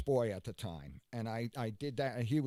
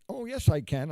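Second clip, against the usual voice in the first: mock sudden reveal; 3 semitones higher, 8 dB louder than usual. Stage bit, suddenly seeing.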